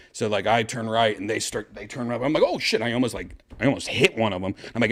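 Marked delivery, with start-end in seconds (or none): 2.4-2.8 high-pitched mock panic; retold alarm. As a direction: yelp it, as if nearly crashing. Retold alarm at near collision.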